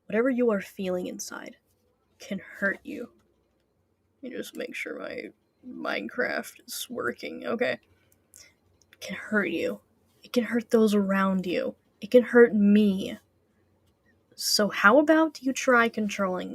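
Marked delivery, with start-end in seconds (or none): 0.0-3.1 a lightly lowered, ominous game-villain voice; a hint of a brooding villain warning his rival; Herobrine voice. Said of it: "My Herobrine voice". 8.9-13.2 a lightly lowered, ominous game-villain voice; a hint of a brooding villain warning his rival; Herobrine voice. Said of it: "My Herobrine voice".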